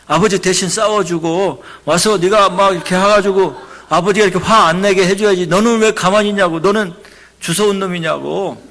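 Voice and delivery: loud, scolding father berating his son; retold angry shouting. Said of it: "막, 막 소리치는 거예요".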